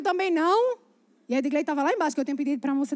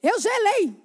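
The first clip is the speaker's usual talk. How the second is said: emphatic dramatic exclamation; 6 semitones higher, 3 dB louder, slower than usual. Acted. Repeats for emphasis to the women.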